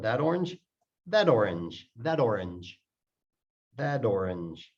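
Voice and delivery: "that orange" run together as one word; linked words. Shown as a demonstration. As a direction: carry the t of "that" straight into "orange". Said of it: "so it sounds like one word".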